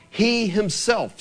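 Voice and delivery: slow, deliberate He himself; emphasized. Shown as a demonstration. Explaining the Hebrew to the church, slow emphasis. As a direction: give He himself slow, separate weight. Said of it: "unless they're wanting to emphasize something".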